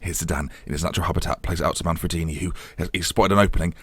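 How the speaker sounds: nature documentary. Pretend. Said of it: "treating it like a wildlife documentary".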